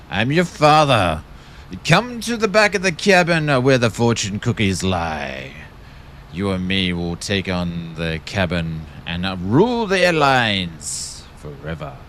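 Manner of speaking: a hint of a Darth Vader voice, lightly done; Vader impression. Streamer hamming a Vader joke for the chat, lightly voiced villain. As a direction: streamer doing a half-hearted Vader for chat, mock menace. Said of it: "it's the best I can do".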